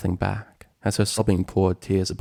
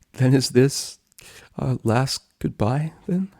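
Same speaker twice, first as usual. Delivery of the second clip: higher, halting, hurt voice; sorrowful question; 5 semitones higher, slower than usual. Acted. Dragon softening in his friend's embrace, sorrowful question. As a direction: ask it as if dreading the answer.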